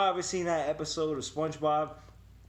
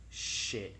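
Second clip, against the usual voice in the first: breathy under-the-breath curse; whispered curse; 5 semitones lower, 6 dB quieter than usual. Retold or imitated. Teen caught by dad, whispering a curse. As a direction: hiss it to yourself in dread. Realizes dad saw him.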